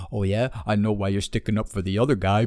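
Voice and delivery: mock knowing accusation; accusing retort. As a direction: imitate an insinuating challenger. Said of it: "this dude tried to fucking race bait me".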